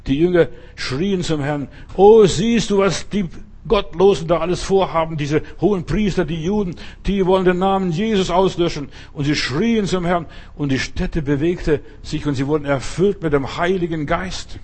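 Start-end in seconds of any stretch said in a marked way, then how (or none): 1.9-8.9 disciples' loud desperate cry, higher; loud pleading cry to God. Retold or imitated. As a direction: call out to the Lord in alarm.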